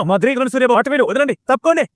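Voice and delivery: raging father demanding release; angry struggling. Acted. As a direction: fight off the hands holding you. Struggling against men holding him.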